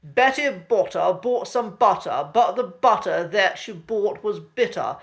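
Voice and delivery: "Betty Botter" with every T crisp and clear, posh RP; crisp posh T's. Shown as a demonstration. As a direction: read "Betty Botter bought some butter" in heightened received pronunciation, crisp T's. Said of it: "It goes like this".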